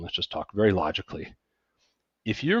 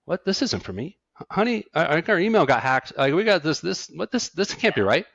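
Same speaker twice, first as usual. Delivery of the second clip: higher, louder, disbelieving client voice; panicked denial; 9 semitones higher, 4 dB louder than usual. Retold or imitated. New high earner sees his tax plan, stunned denial. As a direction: sputter like you can't believe the bill. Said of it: "You go full on denial".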